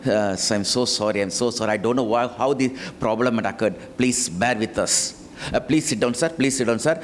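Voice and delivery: low-pitched, mildly soothing apology; calm down an upset customer; placating apology. Acted. PRO apologizes to the customer and offers a seat, placating.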